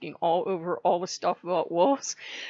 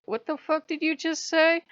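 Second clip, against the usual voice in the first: sharp, higher pitched indignant challenge; a mock-offended higher comeback; indignant retort; 9 semitones higher than usual. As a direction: snap back in offended disbelief. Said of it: "and I'm like".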